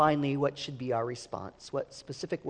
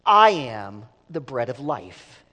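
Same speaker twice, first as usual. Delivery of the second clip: louder and slow, each word weighted; emphatic near-shout; 2 semitones lower, 10 dB louder, slower than usual. Retold or imitated. Preacher shows Jesus proclaiming to the crowd, emphatic near-shout. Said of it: "it's almost like he's shouting".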